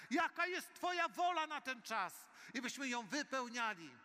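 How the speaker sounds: a pastor's rising, fervent prayer over the church. Real, not acted. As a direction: pour it out to God with full force. Leads fervent congregational prayer.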